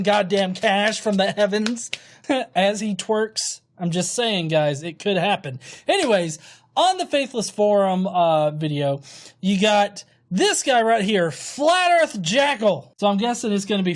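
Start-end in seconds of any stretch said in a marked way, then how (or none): none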